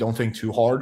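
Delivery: plain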